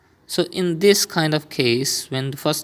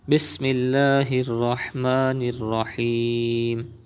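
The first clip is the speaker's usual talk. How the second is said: slow, measured recitation; slower than usual. Acted. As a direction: recite it slowly and calmly. Recites before reading.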